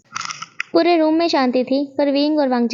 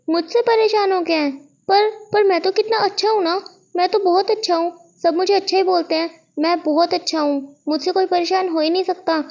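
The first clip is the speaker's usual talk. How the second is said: put-on whiny boastful kid; 5 semitones higher than usual. Wing boasts he is so good.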